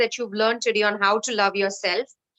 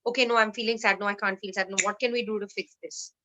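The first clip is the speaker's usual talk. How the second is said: anxious self-talk; 2 semitones lower, 6 dB quieter, faster than usual. Retold or imitated. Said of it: "don't just try to fix them".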